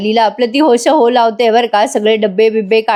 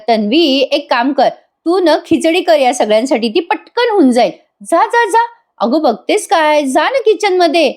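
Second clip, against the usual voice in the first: higher, pushy shooing-off aunt, rising to a high "जा, जा, जा"; bossy elder aunt; 5 semitones higher than usual. Retold or imitated. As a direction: order her off to the kitchen, teasingly. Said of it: "कल्पना ताई म्हणतात". (वरच्या पट्टीत, हुकूम सोडणारी काकू)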